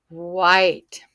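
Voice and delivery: WHITE loud and stretched from the wh; opening sound emphasized. Shown as a demonstration. Teacher showing the digraph, WHITE slowly sounded out. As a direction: draw out the wh in WHITE. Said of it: "my digraph".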